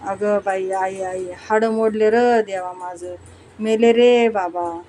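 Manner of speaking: mock lament, staged for the thieves; fake wailing. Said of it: "झक्कास सूर धरून गळा काढला".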